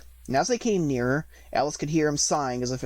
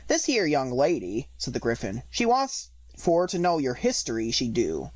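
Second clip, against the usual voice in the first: gruff creature with dialect; a common, gruff beast talking; rough griffin voice. Acted.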